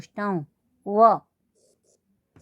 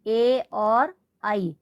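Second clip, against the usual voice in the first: drawn-out vowels; much slower than usual. Shown as a demonstration. Teacher to class, drawing out the vowels slowly. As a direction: stretch ए and आई very slowly. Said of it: "कौन से स्वर?".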